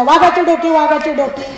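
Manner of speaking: loud market cry; hawker's shout. Acted. Minister shouting in the square, loud hawker cry. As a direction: shout the wares to the crowd. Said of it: "प्रधानजी ओरडायला लागला".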